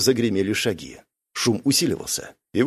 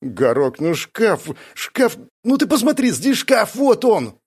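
excited whiny lackey, higher; eager Gnots; 8 semitones higher, slower than usual. Acted. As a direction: point and plead, eager. Gnots eagerly points out wardrobe.

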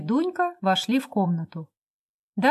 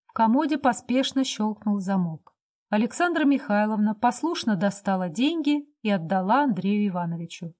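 ordinary delivery, nothing marked

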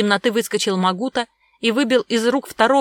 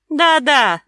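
gloating grate; 7 semitones higher, 8 dB louder than usual. A narrator's reading. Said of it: "довольно заскрежетал Щукин".

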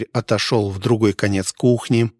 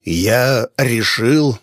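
slow, grinding words through the teeth; quiet rage through teeth; much slower than usual. A narrator's reading. Innkeeper threatening the hunter, slow quiet fury. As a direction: hold the anger down, barely audible menace. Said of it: "говорил хозяин лишь в моменты истинного гнева".

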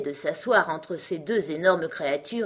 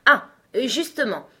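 higher, louder eager exclamation; lively cry; 5 semitones higher, 5 dB louder than usual. A narrator's reading. Unicorn answering the lion, crying out briskly. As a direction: pounce on the question. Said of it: "s'écria vivement la licorne".

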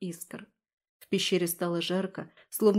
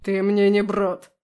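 slow furious growl, louder; 8 dB louder than usual. A narrator's reading. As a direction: snarl it out, loud and slow. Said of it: "прорычал Алаздер". (рычание, громко и медленно)

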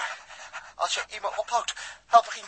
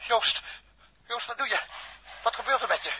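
higher, urgent calling; alarmed; 5 semitones higher than usual. Acted. To his collapsing friend Joost, alarmed and urgent. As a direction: shake him awake with your voice.

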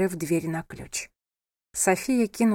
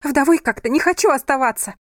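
higher, louder cry; shout; 6 semitones higher, 7 dB louder than usual. A narrator's reading. Sofia shouts at her husband. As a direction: yell it back. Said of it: "крикнула она".

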